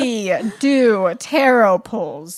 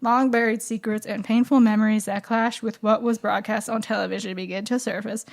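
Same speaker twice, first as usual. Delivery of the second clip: monotone voice. Shown as a demonstration. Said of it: "enjoy it with my monotone voice".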